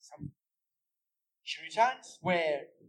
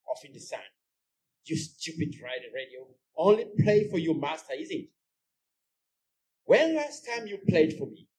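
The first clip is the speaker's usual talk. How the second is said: lightly voiced woman scolding a broken radio; Jubeta grumbling; 4 dB louder than usual. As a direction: fret and scold the radio, half to yourself. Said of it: "Jubeta enters the scene holding an old radio".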